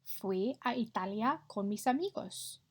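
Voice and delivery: clear, careful Spanish for the class to copy; model Spanish pronunciation. Shown as a demonstration. Teacher modelling a Spanish line for pupils to repeat, clear and careful. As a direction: say each sound so pupils can echo it. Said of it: "echo my pronunciation".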